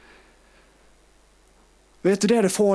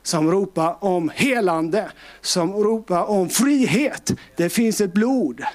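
slow preaching litany; slower than usual. Acted.

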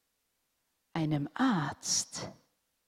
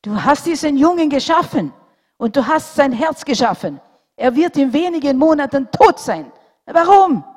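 much higher, louder angry shouting; furious outcry; 9 semitones higher, 12 dB louder than usual. A narrator's reading. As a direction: rage at God through tears. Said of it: "sein Ärger war noch heißer".

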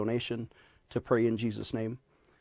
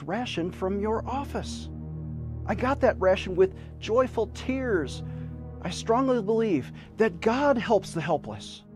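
charity appeal. Acted. Fundraising appeal over music.

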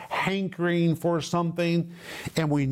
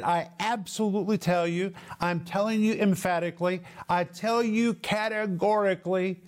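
higher-pitched emphatic declaration; 4 semitones higher than usual. Acted. Preacher rendering Paul's strongest language, emphatic. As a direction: press each rephrasing home emphatically. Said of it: "He's speaking in the strongest of language".

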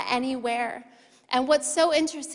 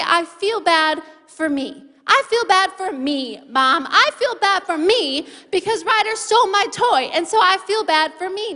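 put-on self-pitying child; 4 semitones higher, 4 dB louder than usual. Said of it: "Nash had pity for himself".

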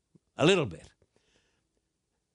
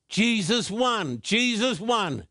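reading the sign; 4 semitones higher, slower than usual. Retold or imitated. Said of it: "she had the big sign up".

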